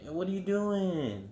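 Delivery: high, very slow mocking drawl; exaggerated impression of an irritating woman caller; annoying chick imitation. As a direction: mimic her, dragging the words out high. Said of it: "That's how she talks".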